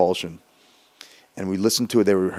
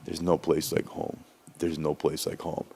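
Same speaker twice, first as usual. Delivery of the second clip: mock mantra; 4 semitones lower, 6 dB quieter than usual. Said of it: "he's repeating the mantra".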